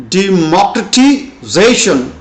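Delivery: "democratization" with main stress on ZA, lighter stress on MOC; primary and secondary stress. Shown as a demonstration. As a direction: say "democratization" in parts, de-MOC-ra-ti-ZA-tion. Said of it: "Primary stress is on zation".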